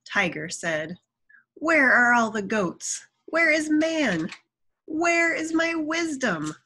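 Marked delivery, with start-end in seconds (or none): 1.5-6.5 high, raised storybook protest; indignant demand. A narrator's reading. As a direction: demand answers as a cheated tiger. Freed tiger demands what was promised.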